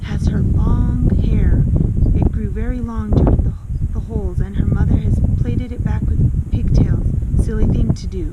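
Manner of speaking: put-on a boy bursting with the news. A narrator's reading. Boy character explaining loudly.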